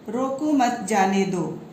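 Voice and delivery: "रोको मत जाने दो" run together with no comma pause; बिना विराम का वाक्य. Shown as a demonstration. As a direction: say "रोको मत जाने दो" slowly as one unbroken sentence. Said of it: "अस्पष्ट वाक्य। इस वाक्य में इसके अंदर छुपे भाव समझ में नहीं". ("रोको मत जाने दो" बिना कहीं रुके, धीरे-धीरे)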